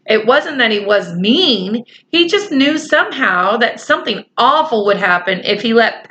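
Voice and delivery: lightly voiced children's story reading; story narration. A narrator's reading. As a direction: read the story along evenly to young listeners. Story narration beside reader's asides.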